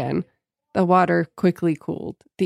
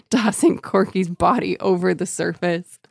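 ordinary talk, nothing marked

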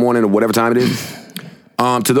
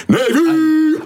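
shouted. Real, not acted. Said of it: "I love Rihanna".

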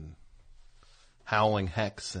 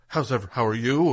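eager, slightly overdone greeting; lightly voiced anxious new shop owner; desperate business owner. Host imitates a desperate new business owner, lightly eager. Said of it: "that desperation of a new business owner".

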